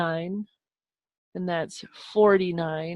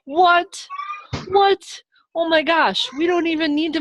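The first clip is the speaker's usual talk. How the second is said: excited disbelief; 10 semitones higher than usual. Real, not acted. Teacher excited about given height.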